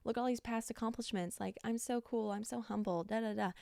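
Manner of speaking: lightly mocking braggart voice; boastful mock voice. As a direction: brag like a show-off, lightly. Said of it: "She does not go around boasting".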